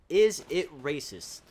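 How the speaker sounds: usual speaking voice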